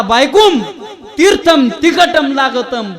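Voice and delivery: high, slow holler with stretched -am endings; loud mock-Sanskrit yell. Husband yells to wife about spicy holy water, loud mock Sanskrit. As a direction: holler it out like a pompous chant. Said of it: "जोरात ओरडला".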